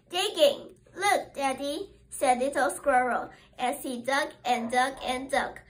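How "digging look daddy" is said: put-on excited child. Little squirrel showing Daddy his digging, excited. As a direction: show off proudly.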